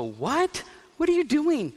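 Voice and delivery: incredulous, jumping high in pitch; acted bewilderment, rising sharply; baffled exclamation. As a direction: react in high-pitched disbelief. Acts out Jesus baffled by Peter.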